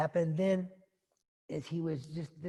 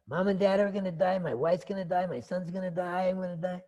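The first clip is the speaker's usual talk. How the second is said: acted dread, raised and loud; mounting alarm; 5 semitones higher, 6 dB louder than usual. Siddhartha realizing his family will die, mounting alarm. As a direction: build a list into a loud outburst. Siddhartha frets over everybody dying.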